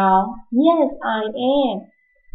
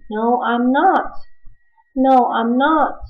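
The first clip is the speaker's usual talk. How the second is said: slow and deliberate; slow model answer. Shown as a demonstration. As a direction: spell it out for the class. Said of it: "如果不是".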